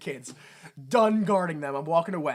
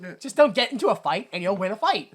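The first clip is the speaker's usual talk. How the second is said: mock nineties mentor; 4 semitones higher, 3 dB louder than usual. Parodying nineties coach advice.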